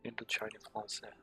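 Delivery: mock French accent, softly. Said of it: "I said that in an accent".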